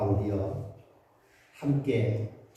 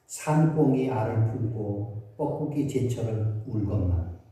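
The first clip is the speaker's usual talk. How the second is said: slow, lowered reading of a poem; poem recitation; 3 semitones lower than usual. Acted. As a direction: recite it with longing, unhurried. Recites Jeong Ji-yong poem. (낮고 느리게 시 낭송하듯)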